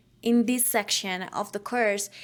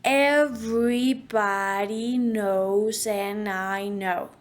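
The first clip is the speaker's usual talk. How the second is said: first word punched, rest very slow; slow, spat out; slower than usual. Shown as a demonstration. Coach telling students to spit the phrase out slowly. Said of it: "Spit it out".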